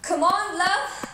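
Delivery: calling back to a chasing man with a taunt. Acted. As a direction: tease him from across the road. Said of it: "and shouted".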